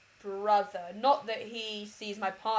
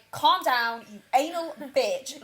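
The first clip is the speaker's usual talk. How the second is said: mock telling-off; 4 semitones higher, 6 dB louder, slower than usual. Retold louder telling-off of mum.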